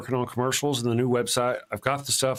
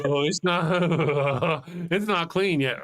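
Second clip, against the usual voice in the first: slow, laughing mock whine; drawn out through a laugh; laughing mock dismay; 3 semitones higher, slower than usual. Imagined user at toilet.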